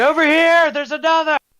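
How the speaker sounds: shrill yell, very loud and high-pitched. Voicing a city watch captain calling others over: shouting. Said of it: "He's shouting".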